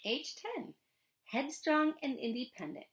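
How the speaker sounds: expressive read-aloud to a class; lively storybook reading voice; story narration. A narrator's reading. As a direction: tell it like a storybook for students. Teacher reads novel chapter aloud.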